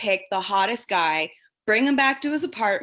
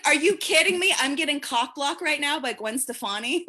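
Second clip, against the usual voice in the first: disbelief; 3 semitones higher than usual. Retold or imitated. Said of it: "I'm like".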